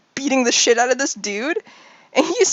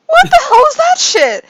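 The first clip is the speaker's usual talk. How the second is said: high, louder alarmed exclamation; shocked outburst; 6 dB louder than usual. Acted. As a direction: blurt it out in disbelief. Dexter reacts to strange thing.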